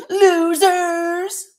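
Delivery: high, loud mocking cry; all-caps shout. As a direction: read it as pure capital letters, yelled. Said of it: "it's literally in all caps with three exclamation".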